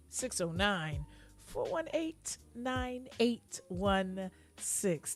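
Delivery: slow, polished phone-answering voice; telephone voice. Shown as a demonstration. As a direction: read the number out like a receptionist. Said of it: "That's my telephone voice".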